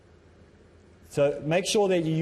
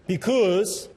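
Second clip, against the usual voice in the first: "Because" punched higher and drawn out; stress on first word; 6 semitones higher, 4 dB louder than usual. Shown as a demonstration. Speaker showing how openings become predictable, exaggerated first-word stress. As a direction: hit "Because" hard, then pause. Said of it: "Some put the emphasis on the first word".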